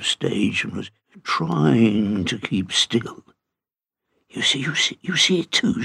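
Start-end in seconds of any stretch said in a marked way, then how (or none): 4.3-5.8 excited. A narrator's reading. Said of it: "said Douglas excitedly".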